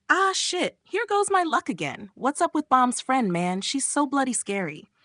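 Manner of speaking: high-pitched, exasperated lament; dismayed whine. A narrator's reading. Brother dragged off by scary friend, dismayed whine.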